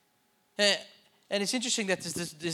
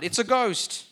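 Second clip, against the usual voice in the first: higher and louder, a scared yelp; frightened cry; 6 semitones higher, 7 dB louder, slower than usual. Acted. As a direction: cry out like you've seen a ghost. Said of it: "they cried".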